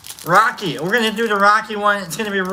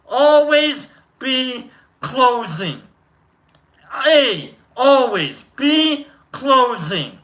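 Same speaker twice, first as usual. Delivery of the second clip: put-on New York accent; 3 semitones higher, much slower than usual. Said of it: "I went a little New Yorkie on that one".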